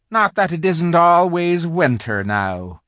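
slow, high, loud faun's lament; gloomy. A narrator's reading. Faun grumbling to Lucy about the endless winter, gloomy. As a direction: bemoan it gloomily, dragging the words. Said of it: "he added gloomily".

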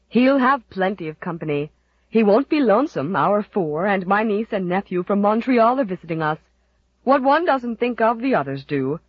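big, loud, hearty woman; a jolly booming neighbour; jolly matron. Acted. Jolly Mrs Parker speaks.

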